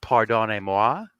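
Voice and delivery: slow, hammed-up French "Pardonnez-moi"; a slow, mock-formal French "Pardonnez-moi"; mock French apology. Shown as a demonstration. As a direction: put on a jokey French politeness. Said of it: "speaks French only when he's angry".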